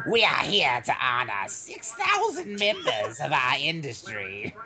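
megalomaniac rant. Retold or imitated. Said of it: "And he sounds like this".

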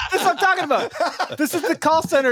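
high, excited outburst; animated exclaiming. Real, not acted. Host seizing on the call center example, excited. Animated agreement, everyone talking over laughter.

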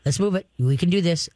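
calm reassurance. Shown as a demonstration. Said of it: "stay very calm".

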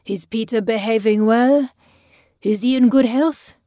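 loud, lightly slurred questioning; drunken slur. A narrator's reading. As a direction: play the tipsy man acting head of household. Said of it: "Bjergen slurred in French".

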